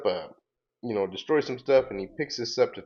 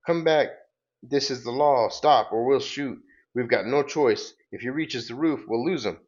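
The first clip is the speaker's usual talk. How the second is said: higher-pitched cop's command; mock police warning, pitched up; urgent calling out; 4 semitones higher than usual. Cops order the escaping robot to stop, urgent calling out.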